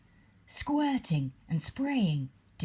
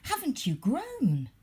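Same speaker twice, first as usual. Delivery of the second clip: flock greeting; 9 semitones higher than usual. A narrator's reading.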